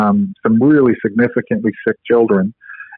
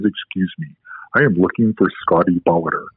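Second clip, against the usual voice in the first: imitating a man's deep voice, lower and softer; 5 semitones lower, 4 dB quieter than usual. Orlowski stopping the speaker at a conference, in a deep voice. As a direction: drop into a low, grave voice for him. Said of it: "in a very deep voice".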